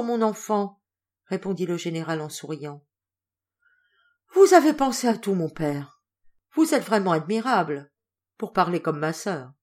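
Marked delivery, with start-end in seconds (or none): 4.3-6.0 laughing. Acted. Daughter laughs, relieved.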